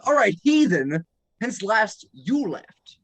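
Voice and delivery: slow, dramatic game master; dungeon master voice. Acted. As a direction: set the scene like a storyteller. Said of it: "That sounds so weird".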